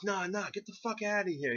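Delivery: high-pitched acted protest; mock shooing away. Friend caught behind the boulder, mock indignant shooing. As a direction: imitate a friend waving you off.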